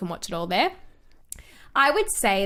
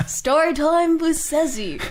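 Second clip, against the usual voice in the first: slow, drawn-out higher jingle voice; playful segment announcer; 6 semitones higher, 3 dB louder, slower than usual. Pretend. Host naming her own story segment, playful drawn-out announcer.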